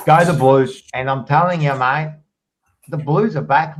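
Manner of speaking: loud, fired-up barracking for the Blues; rally the fans, voice climbing; excited cheering. Real, not acted. Cheering for his footy team.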